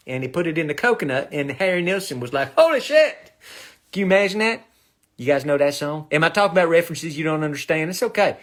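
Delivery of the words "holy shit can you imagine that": high, loud mock exclamation; mock shocked shout. Singer reacting to lime in the coconut, mock shout.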